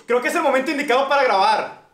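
high sugary sister voice; man doing a woman's voice. Retold or imitated. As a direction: sweet-talk dad as the sister. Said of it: "Porque somos Ale Ríos".

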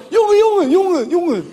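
imitating Moroccan Dutch street slang. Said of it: "Hij vraagt dingen zo".

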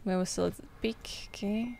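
breathy whisper, barely voiced; hushed whisper. Player whispering the eerie night narration. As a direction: whisper it like a secret in the dark.

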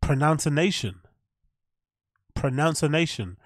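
pronunciation echoed as "pro-noun-ci-nation"; mock the slip, pronunciation with an extra n; pronunciation said as "pronouncination"; mispronounced pronunciation. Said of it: "how do you say pronunciation".

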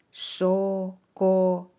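шоколад very slowly as шо-ко-лад; three drawn-out, separate beats in шоколад; syllable by syllable. Shown as a demonstration. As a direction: sound out шоколад loudly, syllable after syllable. Teacher splits word into syllables.

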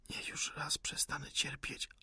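a weeping, breathy plea; tearful whisper. Acted. The wounded rebel begs the officer to end his pain, weeping. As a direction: beg for the end through tears.

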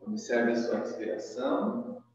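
soft, measured yoga-teacher guidance; guided breathing meditation. Acted. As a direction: guide a breath softly, leaving long pauses. Leads opening breathing meditation.

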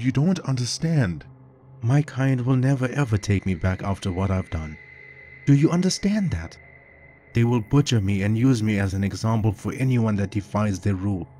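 high, tearful and desperate; tearful pleading. A narrator's reading. Captured shapeshifter begging the cop to understand, tearful and high. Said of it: "The man sobbed uncontrollably".

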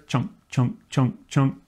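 short, even "chunk" on each beat; imitated guitar chunks. Shown as a demonstration. Teacher imitating the guitar player's quarter notes, rhythmic chunks. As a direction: vocalize a guitar comping steady quarters.

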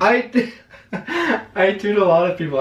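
laughing through the words. Real, not acted. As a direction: giggle as you brush it off. Laughing off accusation.

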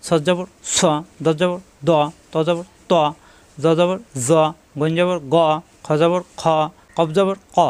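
each last syllable like "স" short and thick; short heavy letters. Shown as a demonstration. Teacher drills vowelled letters for pupils, short and heavy. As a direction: recite "দ", "ত", "ক" heavy, without stretch. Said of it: "দ্রুত উচ্চারণ হবে".

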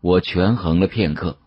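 ordinary delivery, nothing marked

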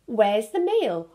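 a lightly voiced hungry seal asking for food. A narrator's reading. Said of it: "asked a hungry seal".

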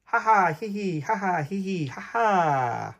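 giggly ha ha hee hee; acted laughter. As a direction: laugh along like the squirrels. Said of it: "they laughed when they saw him".

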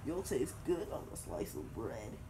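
a hint of a hungry monster; lightly voiced gruffalo eyeing its next meal. Gruffalo eyeing up the mouse, lightly voiced monster. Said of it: "the gruffalo said".

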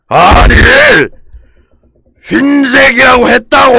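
아주 높고 크게 악쓰기; 억울함에 말끝을 길게 끌며 절규; 폭발한 고함. Real, not acted. Explodes at repeated pronunciation corrections. (악에 받친 고함)

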